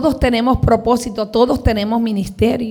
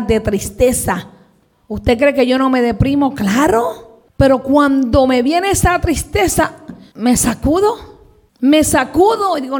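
ordinary talk

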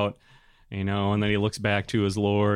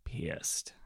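whispered; 5 semitones lower, 13 dB quieter than usual. Real, not acted.

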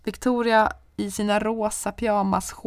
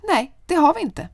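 high, louder snap back; sharp retort; 9 semitones higher, 8 dB louder than usual. Retold or imitated. Arguing with the neighbour at night, snapping back. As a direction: shut him down firmly. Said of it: "Jag bara".

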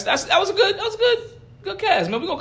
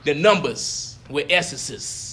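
put-on very old faint voice; 3 semitones lower, 3 dB quieter, much slower than usual. Shown as a demonstration. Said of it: "You gotta say it like an old person".

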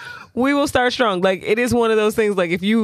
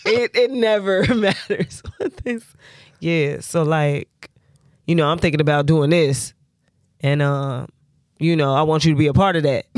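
lazy man default voice; 3 semitones lower than usual. Retold or imitated. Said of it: "my man default voice".

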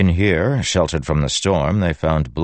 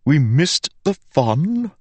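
high, slow ringing blade; a bored weapon speaking, slowly; ringing metallic sword voice; 13 semitones higher, 3 dB louder, slower than usual. Acted. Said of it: "the sword said from his back".

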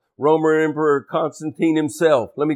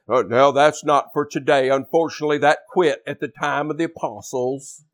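mocking naysayer preachers. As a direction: mildly parody a dismissive preacher. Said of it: "That's how they say it".

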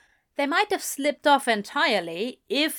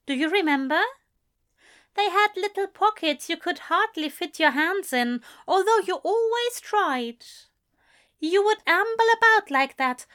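higher, fond teasing voice; a prim angel gently teasing; teasing Aziraphale; 8 semitones higher than usual. A narrator's reading. Aziraphale teasing Crowley about tight trousers, higher fond voice.

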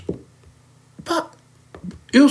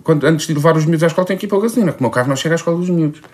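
higher, fast excuse-making; whiny wife voice; 3 semitones higher than usual. Retold or imitated. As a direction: rush out the excuse.

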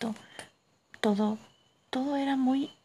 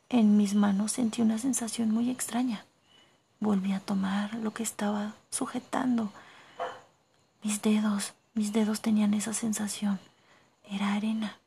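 whispered narration. A narrator's reading. Narrator whispering the cave story to listeners. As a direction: hush the tale as if not to wake anyone.

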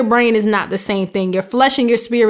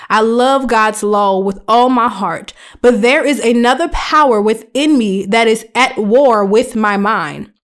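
scripture reading. Acted. Reads scripture aloud.

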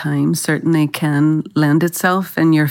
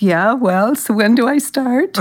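cocky eagerness; 5 semitones higher than usual. Retold or imitated. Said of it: "I was like".

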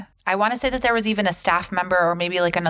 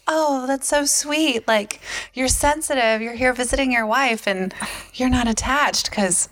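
gushing Charlotte; 5 semitones higher than usual. Retold or imitated.

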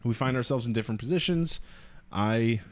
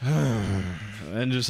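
mock loud sigh; 3 semitones lower than usual. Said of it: "like, loud sighs".

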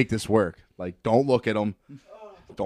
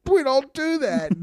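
much higher, slow prim voice for Dan; imitating Dan; 4 dB louder, slower than usual. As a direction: squeak it out like a shocked prude. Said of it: "And Dan's like".

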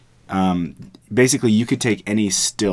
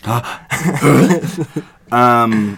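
anime character; 4 semitones higher, 5 dB louder than usual. Real, not acted. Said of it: "You sounded like an anime character".

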